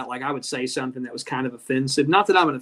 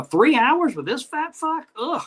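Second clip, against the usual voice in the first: high, drawn-out incredulous groan; dismayed whine at the very idea; mock disgusted disbelief; 11 semitones higher, slower than usual. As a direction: play an appalled viewer, slow and high. Acting out a put-off viewer's reaction.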